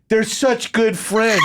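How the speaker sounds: drawn-out mock weepy gush; hysterical crying. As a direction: gush it slowly as if crying from laughter. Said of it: "I was hysterical crying".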